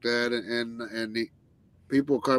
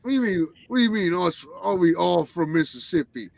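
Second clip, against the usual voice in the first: retold confusion; 4 semitones higher than usual. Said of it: "I go".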